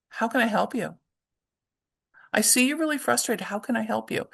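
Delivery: gentle offer of help. Shown as a demonstration. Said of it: "changing that around and saying".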